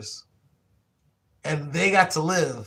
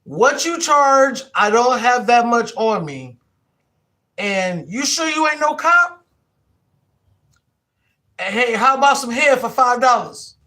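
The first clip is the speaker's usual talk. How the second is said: john's voice; 8 semitones higher, 9 dB louder than usual. Acted. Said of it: "Maybe I would record his voice".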